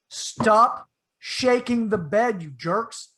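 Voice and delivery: slow, loud irritated command; grumpy order with eyes shut; annoyed. Retold or imitated. Annoyed at friends shaking bed.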